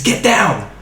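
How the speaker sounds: high-pitched, contained yell; replayed warning shout. A narrator's reading. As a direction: call the warning out high, short of full volume. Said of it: "Before Badis shouts".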